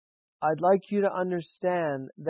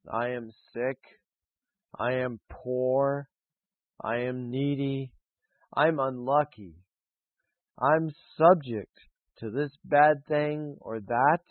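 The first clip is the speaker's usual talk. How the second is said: mopey complainers; 2 semitones lower than usual. Retold or imitated. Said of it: "You hear people talk like that".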